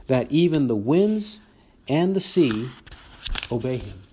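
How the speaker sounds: emphatic read-aloud Bible narration; scripture reading. Acted. Preacher reads the storm story to the congregation, emphatic scripture reading. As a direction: read the passage out with lively emphasis, quotes lifted.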